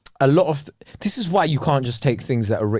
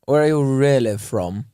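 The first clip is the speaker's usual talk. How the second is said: lightly put-on posh accent; 2 semitones lower than usual. Showing how someone asks where you're from, posh accent. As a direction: ask it in a middle-class posh accent. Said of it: "in an accent going".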